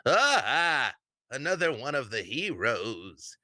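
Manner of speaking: put-on an old man spotting a hero through a glass; old man's exclamation. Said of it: "and he's like".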